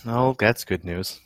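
slow, softly sarcastic; deadpan it, slow and quiet; unimpressed, drawn-out reply; dry sarcasm. Real, not acted. Deadpan reply to unwelcome news, others laugh.

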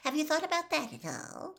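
pitched high and pressing; prying question. Acted. Reporter presses Harry about dying, high and prying. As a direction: lean in for the answer.

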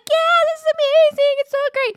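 high-pitched gushing imitation; thrilled kid. Thrilled child getting on the banana boat, gushing. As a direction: imitate a kid squealing with delight.

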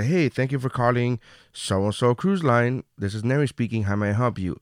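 call-centre greeting. Retold or imitated. Comic re-enacting his cruise line call-centre job, routine agent patter. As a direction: recite a routine customer-service greeting. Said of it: "I would say".

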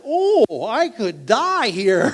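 high, loud gasp of awe; awed gasp. Retold or imitated. To his listeners, reliving the cliff edge, in awe. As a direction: catch your breath at the drop.

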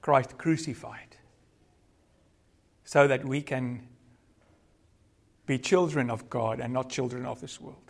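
measured, reverent prayer with long pauses; closing prayer. Real, not acted. Preacher thanking the Father for his salvation plan, measured prayer. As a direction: pray aloud, phrase by phrase.

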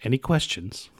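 measured, lightly voiced briefing officer; brief the troops in a put-on roadie voice; roadie giving military briefing. Quoting a film security briefing, mock-serious voice. Recites the film's stage briefing.

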